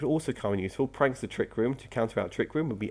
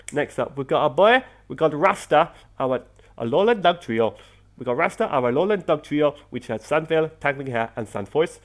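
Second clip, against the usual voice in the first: louder, lively bad Rastafarian accent; attempted Rastafarian accent; 3 semitones higher, 5 dB louder than usual. Gamer introducing his Rasta team member, in an attempted Rastafarian accent. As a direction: introduce it in a hammed-up Jamaican accent. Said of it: "Trying to do a Rastafarian accent".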